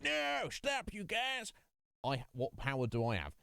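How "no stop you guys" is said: much higher, squeaky mock plea to stop; feeble plea. Player mocks his own helpless plea to the army, much higher. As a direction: plead uselessly with the whole army. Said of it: "and be like".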